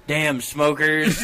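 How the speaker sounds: slow mock grumble; imitating a coworker's fake indignation; bad liar. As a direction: drag it out as unconvincing blame. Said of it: "He's so bad at lying".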